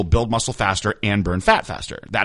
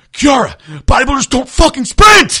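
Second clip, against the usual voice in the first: livid, shrill, very high and very loud furious voice; 9 dB louder than usual. Retelling what he said to her in the gym, mock-angry rant. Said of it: "he's so mad".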